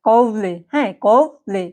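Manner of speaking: "কওলে" said as a careful model; teacher's model pronunciation of "কওলে"; pronunciation demo. Shown as a demonstration. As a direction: sound out "কওলে" in two clear parts. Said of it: "আরেকবার যদি একটু উচ্চারণ করি".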